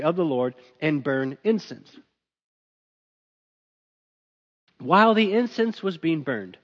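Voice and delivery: measured, even Bible reading voice; scripture reading. Acted. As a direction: read the passage steadily to the congregation. Reads the scripture passage.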